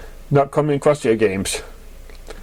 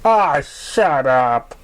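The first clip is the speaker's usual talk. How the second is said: playful; 2 semitones higher, much slower than usual. Acted. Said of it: "playful punch".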